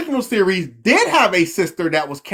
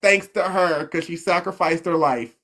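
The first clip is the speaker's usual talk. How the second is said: slow solemn narrator voice; slower than usual. Retold or imitated. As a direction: read it slowly like the show's narrator. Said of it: "that's what they said".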